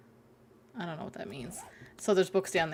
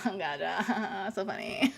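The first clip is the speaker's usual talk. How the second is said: laughing through the punchline; 4 dB louder, slower than usual. Real, not acted. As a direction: finally get it and crack up. Gets the joke, laughs.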